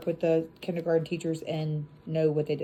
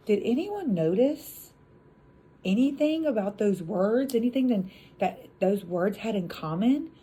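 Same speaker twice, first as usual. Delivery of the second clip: teacher asking class; 3 semitones higher than usual. Retold or imitated. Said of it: "Then you're like".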